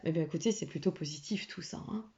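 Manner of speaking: whispering. Real, not acted. Aside while reading the horoscope.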